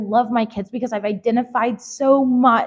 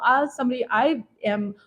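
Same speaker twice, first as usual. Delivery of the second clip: normal talking voice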